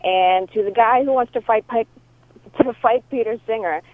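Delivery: voicemail over a phone line; phone recording; answering machine message. Real, not acted. This is from a caller.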